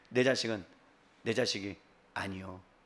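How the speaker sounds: low, soft, quiet solemn emphasis.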